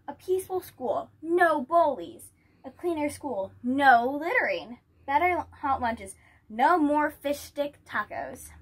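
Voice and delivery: loud, high, rallying speech; rousing campaign promises. Acted. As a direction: sell each promise to the crowd. Grace announcing campaign promises.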